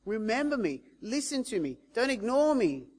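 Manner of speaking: insistent appeal, each phrase pressing harder; calling out. Retold or imitated. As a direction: imitate the beggar begging to be noticed. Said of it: "He's calling out".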